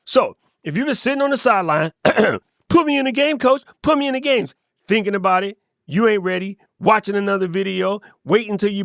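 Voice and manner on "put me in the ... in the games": high-pitched mock pleading to coach; eager benched player. Player on the sideline begging coach, high pleading.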